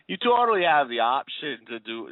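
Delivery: horrible mock Boston accent; botched Boston accent, drifting off-target; attempted Boston accent. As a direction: have another go at a bad Boston accent. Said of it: "do my best Boston accent".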